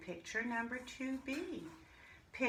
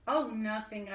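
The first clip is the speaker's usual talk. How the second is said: put-on innocent child; 6 dB louder than usual. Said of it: "I say".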